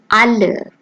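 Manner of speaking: alle with a German open a, ah-leh; German pronunciation. Shown as a demonstration. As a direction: say alle the German way, both syllables clear. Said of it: "and in a German word like".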